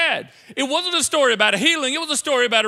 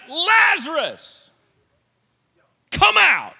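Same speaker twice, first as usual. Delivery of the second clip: much higher, loud and slow shout; shouted command; 8 semitones higher, 7 dB louder, much slower than usual. Retold or imitated. Jesus calling Lazarus out of the grave, full shout. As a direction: bellow it out into the tomb. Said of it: "Jesus let her rip".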